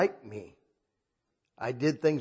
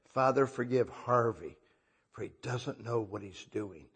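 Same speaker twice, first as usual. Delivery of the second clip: inner voice; 3 semitones lower, 6 dB quieter than usual. Retold or imitated. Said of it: "I hear this voice in my head".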